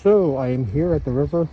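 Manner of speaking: talking through a face mask; muffled behind a mask. Real, not acted. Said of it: "my mouth is covered 'cause I have a face, like, a covered wing mask".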